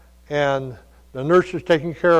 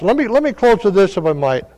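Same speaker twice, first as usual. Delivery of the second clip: ordinary delivery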